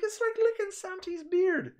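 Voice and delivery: very high, slow Irish impression; drawn-out, loud comic Irish lilt; Irish accent. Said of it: "speaking with an Irish accent".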